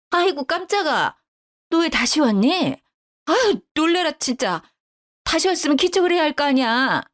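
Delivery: put-on flustered older woman's complaint; startled scolding. A narrator's reading. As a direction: act caught out and scold back. Caught out, startled mother-in-law scolds.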